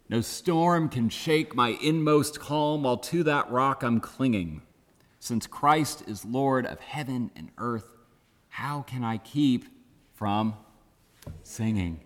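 measured, spoken verse with lingering pauses; hymn recited as verse. Acted. Pastor quoting the hymn refrain to the congregation, measured recitation. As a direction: recite the refrain, letting the last words settle.

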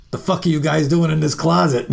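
brash New York rocker, half-laughing; gruff rocker voice. Retold or imitated. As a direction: bark it like a brash rocker walking in. Leslie barging into closet.

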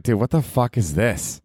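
lightly voiced shocked clubgoer; mock horror as the lights come up; imitating a stunned, let-down partier; dismayed partier. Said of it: "It's like".

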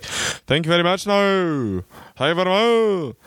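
high-pitched lilting mimicry; sing-song stranger. Mimicking the man at the door, high sing-song. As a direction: sing out the thanks in a put-on voice. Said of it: "singing everything".

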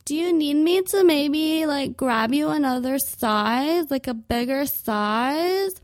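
mock the clerk's careful tact; condescending clerk. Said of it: "they're like".

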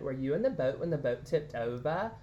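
lightly put-on British accent; playful saying in a slight British accent; little British accent. Shown as a demonstration. Host reciting a pool saying, little British accent. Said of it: "in a little British accent".

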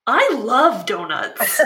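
slow, amused denial through a laugh; chuckling indignation; laughing protest. Acted. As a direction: laugh while insisting on it. Laughing protest about donuts.

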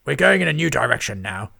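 booming lord declares; loud announcement. A narrator's reading. Lord Lloyd announces to his scribes, loud and booming. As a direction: announce it to the room.

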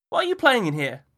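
put-on high, bright child voice; a curious little boy; small boy. A narrator's reading. Boy asks Miller how he knew, high child voice.

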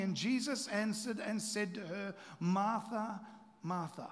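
measured, unhurried Bible reading; scripture reading. Acted. Preacher reading Luke to the congregation, measured scripture reading. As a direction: read the Gospel passage to the church.

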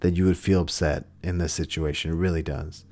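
soft, low, validating reassurance; compassionate. Shown as a demonstration. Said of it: "if you say it with compassion".

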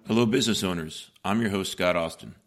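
ordinary talk, nothing marked

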